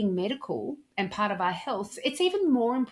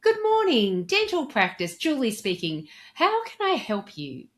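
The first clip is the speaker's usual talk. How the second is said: much higher and louder, bright burst of enthusiasm on Good morning; high-energy, enthusiastic receptionist greeting; energetic phone greeting; 5 semitones higher, 4 dB louder than usual. Shown as a demonstration. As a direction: answer the phone like you're thrilled they called. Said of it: "increasing my energy and enthusiasm".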